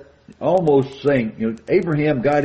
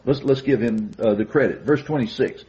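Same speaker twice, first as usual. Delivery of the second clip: normal talking voice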